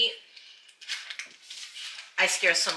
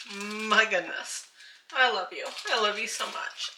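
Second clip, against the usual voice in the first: cooing; 2 semitones higher than usual. Retold or imitated. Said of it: "I'm like".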